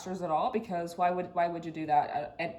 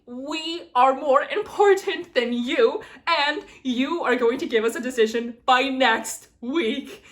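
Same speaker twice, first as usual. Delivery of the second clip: louder, slow snooty mock of the school; 6 dB louder, slower than usual. Applicant mimicking the program's demands, louder snooty mockery. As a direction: sneer it out as the smug school. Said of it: "only for me to be like".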